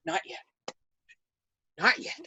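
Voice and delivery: soft, held-back aside; hushed not-yet. Retold or imitated. Companions beside her during the awards, hushed. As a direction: murmur it under the breath. Whispered holding back, retold.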